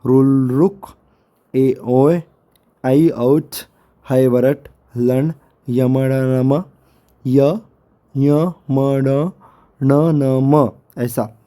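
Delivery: slow, deliberate sutra recitation; reciting again. Shown as a demonstration. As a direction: read each sutra aloud with pauses. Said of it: "तो मैं फिर से एक बार पढ़ता हूँ". (सूत्र फिर से धीरे-धीरे पढ़ना)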